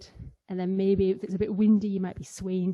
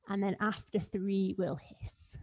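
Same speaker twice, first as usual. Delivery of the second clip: hushed; 7 dB quieter than usual. Real, not acted. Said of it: "quiet build before the count".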